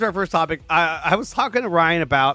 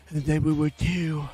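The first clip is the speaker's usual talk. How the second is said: Christian Bale; 2 semitones lower, 5 dB quieter than usual. Retold or imitated. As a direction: do a growly Christian Bale Batman. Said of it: "you gotta do the, uh, Christian Bale".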